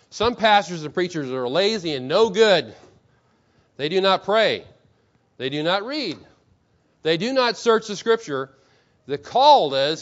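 emphatic declaimed rebuke, each phrase set apart; Martin Luther. Acted. Preacher quoting a blunt reformer to the congregation, emphatic declaiming. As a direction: read it out firmly, with weight on each charge. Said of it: "this is how he talked".

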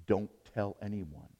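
low, softened quoted warning; quiet, low imitation of a confidential order; hushed secrecy. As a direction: say it as a secret, voice dropped. Voicing Jesus asking for secrecy.

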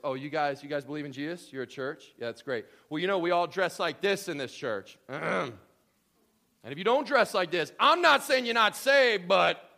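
loud, mock-condescending church member; legalistic churchgoer. Pastor mocking a rigid church to newcomers, loud and smug. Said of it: "So in other words".

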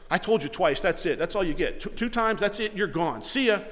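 loud, curt mock dismissal; mock fed-up pastor; dismissive brush-off. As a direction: shut them out for good. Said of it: "do I throw 'em out".

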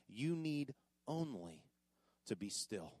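slow hushed emphasis. Shown as a demonstration. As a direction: lean in and whisper the promise. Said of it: "Look at that last line".

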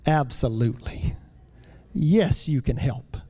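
tender father. Retold or imitated. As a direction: coax the little boy in kindly. Dad gently welcoming his son.

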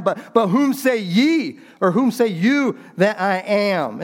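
Jesus pressing the disciples, heavy stress on "you"; emphatic you. Shown as a demonstration. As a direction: stress on "ye" and "you", slowed and lifted on "whom say ye". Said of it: "That's why I was just emphatic with it".

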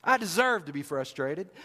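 muttered grievance at normal pitch; sulky complaint. Acted. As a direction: grumble it first. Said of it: "I can hear him saying this".

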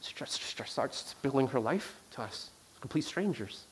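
hushed and slow as she opens up; hushed whisper. Real, not acted. Hushed telling of a sad moment.

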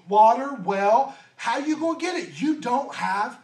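puzzled she can't follow; a touch of confused disbelief; dumbfounded. Acted. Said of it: "She's completely dumbfounded".

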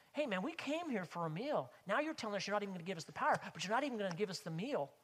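acted-out indignant complaint, rattled off quickly; complaining. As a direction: gripe like a crowd cheated of a meal. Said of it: "They start complaining to Jesus".

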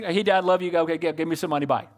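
a hint of a breezy kid rushing out; lightly voiced kid grabbing money; mock careless kid. Preacher imitates kids rushing past Dad, lightly breezy. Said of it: "if your kids talk to you like that".

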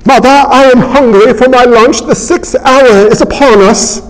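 hammed-up old-fashioned formal speech; Old English speech. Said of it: "You speak in Old English".

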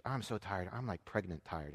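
low, soft weary complaint, imitated; tired wife. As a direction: let the voice sag as if worn out. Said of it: "Kendra was like".

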